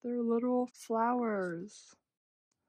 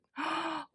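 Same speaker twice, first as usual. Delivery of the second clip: high gasp of delight; thrilled gasp; 7 semitones higher than usual. Real, not acted. Fan seeing a favorite color, thrilled gasp. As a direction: suck in air, thrilled.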